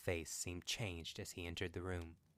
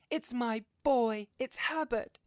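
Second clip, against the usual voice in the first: very high, loud, drawn-out character cry; old woman crying out; 11 dB louder, slower than usual. A narrator's reading. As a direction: shriek it slowly in a put-on high voice. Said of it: "she cried, struggling".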